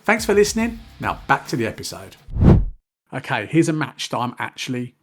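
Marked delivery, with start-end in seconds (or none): 0.0-2.2 upbeat podcast sponsor read. Acted. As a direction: sell it, bright and brisk. Ad read over music.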